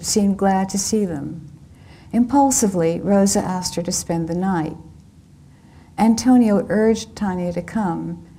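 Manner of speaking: measured literary reading voice; story narration. A narrator's reading. Author reading her novel to an audience, in narration voice. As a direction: read the novel scene to the audience, evenly.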